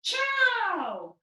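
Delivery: Italian greeting. Shown as a demonstration. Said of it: "And we might say".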